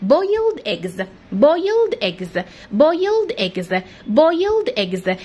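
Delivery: "boiled eggs" said very slowly, word by word; slow careful drill. Shown as a demonstration. Teacher slows right down so no child feels left out. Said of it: "عشان ما يزعلش مننا".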